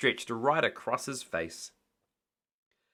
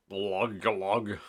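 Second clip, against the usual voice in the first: gurgling glug; 3 semitones lower than usual. A narrator's reading. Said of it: "glugged Mister Grinling".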